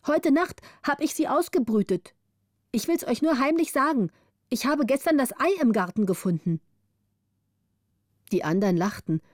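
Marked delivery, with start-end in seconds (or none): 0.1-6.6 high, playful mock-secretive girl; teasing child's secret. The orphan teases the other children with a high, mock-secret tale. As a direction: pretend to share a secret.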